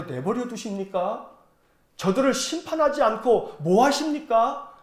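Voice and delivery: a hint of an indignant complaint, first phrase slowed; half-acted prophet pressing God for justice; arguing with God. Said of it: "막 따지는 거예요". (하나님께 살짝 따지듯이)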